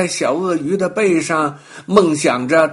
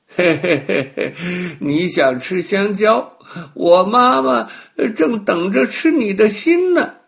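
sly chuckle, then louder and higher on the threat; sly laughing; 6 semitones higher, 5 dB louder than usual. Acted. Crocodile reveals the trap to the monkey, gloating with a laugh. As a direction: gloat with a mean little laugh. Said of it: "小鳄鱼笑着说".

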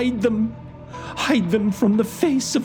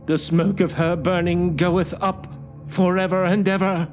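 high, loud, demented preaching cry; shouting curate; 10 semitones higher, 3 dB louder than usual. A narrator's reading. Curate breaks out at the narrator like one demented, shouting high. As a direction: cry it out like a madman. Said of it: "he shouted".

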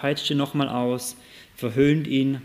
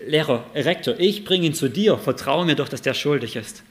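mock pleading student; 2 semitones higher, 5 dB louder than usual. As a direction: beg the principal to just trust you. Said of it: "Anton denkt sich".

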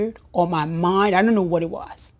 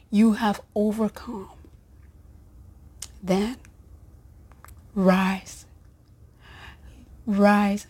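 inspirational quote reading. Acted. Reads inspirational quote slowly.

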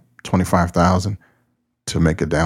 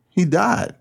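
high woman's voice; 12 semitones higher than usual. Acted. Woman reports parrot's death.

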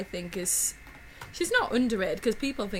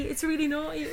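higher, hushed mock-scandalised child; hushed giggly kid; 7 semitones higher than usual. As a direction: say it again like a secret thrill. Kids giggling over naughty film.

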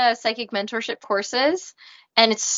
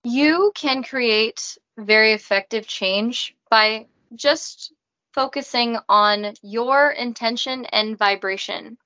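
Raina robot voice. Acted. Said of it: "I talk in a robot voice".

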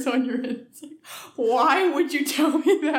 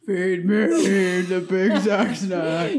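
mock greedy customer; 4 semitones lower, much slower than usual. Friend hams up a fast food order, slow and low. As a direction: moan it like a starving customer.

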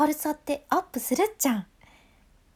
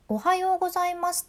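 おはようございます with lively high ups and downs; bright greeting; 6 semitones higher, faster than usual. Shown as a demonstration. Teacher demonstrating a bright おはようございます with pitch contrast. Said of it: "明るい声にするために".

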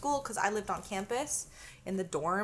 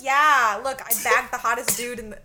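boastful brag; 8 dB louder than usual. Retold or imitated. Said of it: "I was like".

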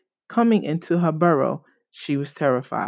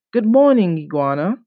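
python voice; 4 dB louder than usual. Acted. Python greets iguana.

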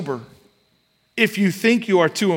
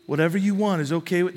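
softer, quick, shrugging mock tone; mock anything-goes voice; 6 dB quieter, faster than usual. Preacher mocking a spineless idea of gentleness, softer and quick. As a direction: lightly mimic a spineless yes-man, softer and fast. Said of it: "gentleness doesn't mean you're like".

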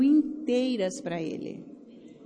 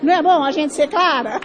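laughing; 4 semitones higher, 9 dB louder than usual. Real, not acted. Laughing at her own bluntness.

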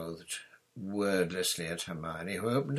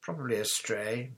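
put-on lightly raised, unbothered girl's voice; calm; 4 semitones higher than usual. A narrator's reading. Hermione dismissing the black dog, calm. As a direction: brush it off calmly. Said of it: "said Hermione calmly".

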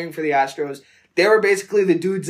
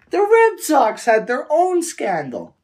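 high, laughing exasperation; laughing while talking; 7 semitones higher than usual. Real, not acted. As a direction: giggle through the story. Laughing through outraged retelling.

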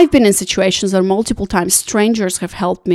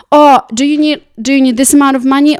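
mock eager offer; 5 semitones higher, 5 dB louder than usual. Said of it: "people are not gonna come to you and say".

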